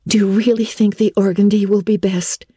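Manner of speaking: fretting over the dress in a whisper; young girl worried about her dress, whispering; anxious. A narrator's reading. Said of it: "queried Anne anxiously".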